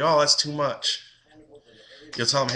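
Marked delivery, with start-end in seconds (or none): 0.0-1.0 higher, louder mock gasp of a stingy parent; mock shocked parent. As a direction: scoff at the price in a put-on voice. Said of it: "Or they'll be like".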